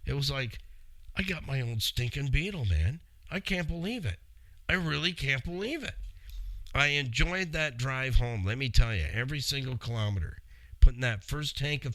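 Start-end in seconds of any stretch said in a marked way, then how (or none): 1.2-5.9 emotional disbelief. Retold or imitated. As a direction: marvel at it, a little moved. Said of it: "It was a little emotional".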